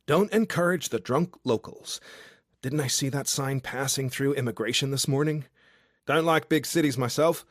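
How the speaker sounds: a tipsy outback charmer calling up to a window; drunk Aussie guy. Acted. Drunk Australian guy below her window, boisterous and cheeky.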